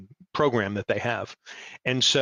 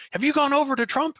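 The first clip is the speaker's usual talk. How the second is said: high, incredulous mock question; imitating liberal friends asking in disbelief; mock accusing friends; 13 semitones higher than usual. Friends quoted asking if he went Trump, high and incredulous.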